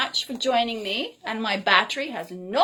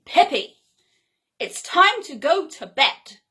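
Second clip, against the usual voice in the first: louder, stern self-scolding; sharply; 3 semitones higher, 4 dB louder than usual. Pretend. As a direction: snap the order at yourself, louder. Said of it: "speak to myself quite sharply".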